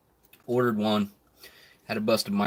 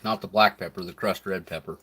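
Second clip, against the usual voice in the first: chewing while talking; talking through a mouthful of food; mouth full; 2 semitones lower than usual. Real, not acted. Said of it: "Sorry for the silence while I'm chewing".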